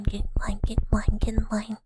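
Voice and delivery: play-acted threatening command; mock menace. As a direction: order them about in a forceful whisper. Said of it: "you just do the back and forth".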